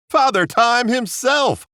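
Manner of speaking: high, slow showman intro; booming host introduction; grand announcement. Acted. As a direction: announce him like a big star.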